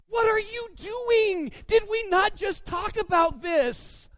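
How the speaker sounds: high, loud, slow mock outrage; hammed-up husband's cry of disbelief; exasperated protest. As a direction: act out the betrayed fan yelling at his wife. Retelling protest at wife's spoiler.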